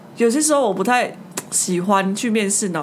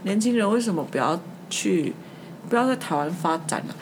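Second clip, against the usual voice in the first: lightly voiced old man, a touch quieter; old boss's advice; 2 semitones lower, 5 dB quieter than usual. Retelling the old boss's odd interview advice, lightly voiced old man. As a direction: mildly imitate the old man giving advice. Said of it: "他就说".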